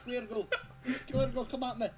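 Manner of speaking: put-on glasgow street accent. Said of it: "Scotland, there's swearing".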